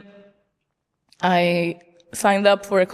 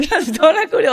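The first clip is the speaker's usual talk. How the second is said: judge's question; 8 semitones higher, 5 dB louder than usual. Retold or imitated. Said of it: "She said".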